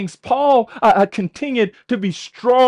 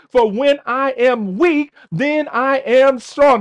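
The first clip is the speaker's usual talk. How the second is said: rising emphasis; 3 semitones higher, slower than usual. Acted. Preacher's climax.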